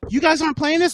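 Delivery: high, rising incredulous question; retold surprise lifting at the end; retold disbelief.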